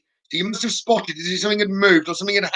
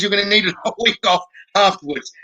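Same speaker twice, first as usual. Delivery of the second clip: laughing through it. Real, not acted. Medium relaying a funny message.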